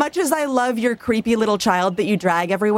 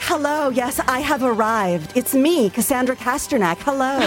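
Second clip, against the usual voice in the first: grand entrance; 5 semitones higher than usual. Acted. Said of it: "being like".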